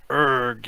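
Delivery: loud guttural zombie groan; zombie moan. Acted. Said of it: "you moan in your best zombie imitation".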